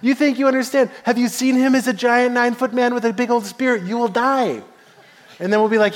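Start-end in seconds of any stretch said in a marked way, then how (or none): 0.0-4.6 raised-pitch mock warning; scoffing retort. Soldiers answering the amped-up boy, scoffing warning. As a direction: talk down to the cocky newcomer.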